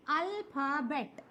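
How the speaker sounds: अल्फ़ाबेट slow, in three pieces: al, pha, bet; divided into three parts. Shown as a demonstration. Teacher recapping the three units, slowly syllable by syllable. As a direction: separate each syllable of अल्फ़ाबेट with a short gap. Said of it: "तीन parts में जो divide किया हमने".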